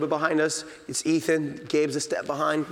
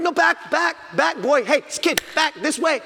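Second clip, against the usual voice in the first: high, loud urgent call-back; a dad calling his son away from bears; 11 semitones higher, 4 dB louder than usual. Retold or imitated. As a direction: shout him back to you.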